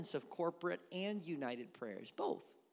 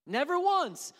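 higher and louder, punched declaration; emphatic preaching; 7 semitones higher, 4 dB louder than usual. Real, not acted. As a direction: hit Never once hard.

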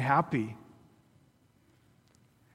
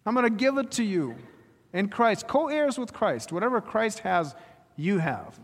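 God promising; 5 semitones higher than usual. Acted. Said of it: "God says".

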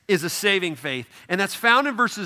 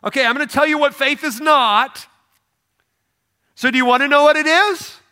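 James voiced; 7 semitones higher, 7 dB louder than usual. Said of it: "like, logical and upfront".

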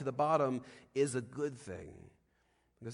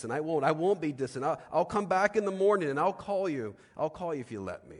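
pleading promise; 5 semitones higher, 7 dB louder than usual. Retold or imitated. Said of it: "He says".

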